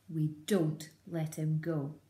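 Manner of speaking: slow, firm, stress on don't; firm refusal. Acted. Bean telling the others, slow and firm. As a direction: lay down the law slowly. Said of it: "Bean said".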